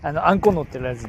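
casual Tsugaru dialect. Acted. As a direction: speak it in broad Tsugaru dialect. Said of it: "津軽弁。".

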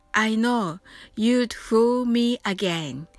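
me said with lips pressed shut; firm m. Shown as a demonstration. Teacher points out the m to learners. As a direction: close the lips hard on me. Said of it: "これもmeのところですね".

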